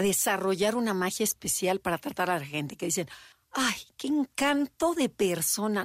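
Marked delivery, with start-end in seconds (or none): 3.5-5.8 charmed admirer. Retold or imitated. People charmed by the girl.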